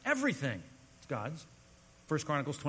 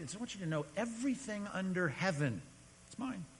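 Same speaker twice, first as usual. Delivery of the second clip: higher, softer voicing of God; God's understated claim; 4 semitones higher, 4 dB quieter than usual. Preacher voices God answering Job, higher understated claim. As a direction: make the claim lightly, dropping softer on the last words.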